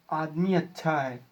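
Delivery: "आदमी अच्छा है" as an understated exclamation, falling away after "आदमी"; exclamation tune. Shown as a demonstration. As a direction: exclaim "आदमी अच्छा है" mildly, ending on a fall. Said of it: "exclamation sign है". (विस्मय के लहजे में "आदमी अच्छा है", हल्का-सा)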